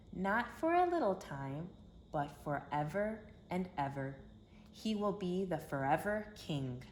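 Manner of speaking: gentle, storybook read-aloud voice; reading to children. A narrator's reading. Narrator telling kids the Christmas story, storybook voice. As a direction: tell it like a bedtime story for little ones.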